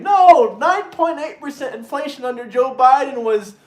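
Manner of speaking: lightly voiced mock liberal; a hint of a mocking caricature; mocking Democrat voice. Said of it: "some of them are saying".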